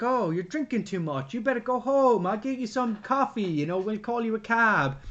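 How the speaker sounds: hammed-up Italian bartender voice; lilting mock-Italian, mostly pitched high; Italian accent. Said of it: "That was my Italian accent".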